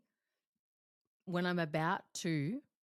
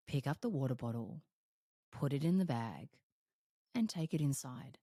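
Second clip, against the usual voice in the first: Siri-like voice; 3 semitones lower than usual. Retold or imitated. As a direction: give yourself orders like a sat-nav. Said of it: "It's like Siri".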